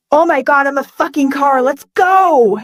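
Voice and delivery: mildly giddy exclamation. Acted. Man realizing he is a car, giddy. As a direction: build to an elated cheer. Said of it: "Feeling incredibly giddy".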